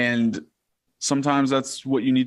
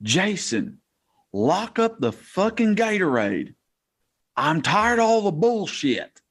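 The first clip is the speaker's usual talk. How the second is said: high-pitched mock scream, much higher than the speaker's own voice; screaming coach; 8 semitones higher than usual. The head coach screaming at the equipment guy after the wash rags, mock furious yell. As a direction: yell it like a furious coach losing it over nothing. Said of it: "he starts screaming".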